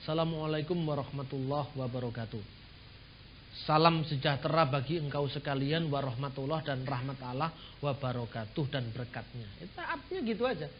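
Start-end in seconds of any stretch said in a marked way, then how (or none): 0.0-9.5 recited greeting. Shown as a demonstration. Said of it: "dibaca begini".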